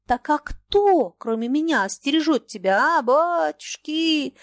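high, loud, slow wail; old man's loud wailing protest; wailing cry. A narrator's reading. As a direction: cry out at him, hands thrown up. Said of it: "завопил Маякин".

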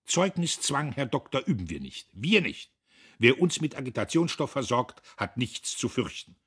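high, loud, defiant; proud worker's declaration. A narrator's reading. Fischer proudly rejects the bribe, high and loud. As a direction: announce it with lofty pride.

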